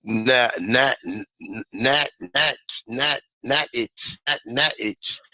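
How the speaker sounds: "not it" with a short flat A, like natch; alternative pronunciation. Shown as a demonstration. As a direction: sound out "not it" haltingly as NAT, NAT-itch. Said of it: "although people say it".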